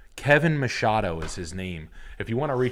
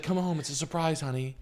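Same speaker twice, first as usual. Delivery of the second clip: lightly voiced sweet wife; 4 semitones higher than usual. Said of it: "she's like".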